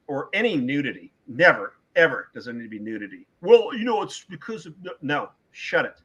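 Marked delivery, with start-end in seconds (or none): 3.4-4.8 mock excuse. Mocking a filmmaker's excuse.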